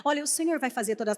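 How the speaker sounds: soft, low, soothing church-sister encouragement; gentle message-bearer. Acted. A believer comforting a sister after praying for her, gently. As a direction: imitate someone delivering God's message tenderly, hushed. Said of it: "tem gente que leva a mensagem assim".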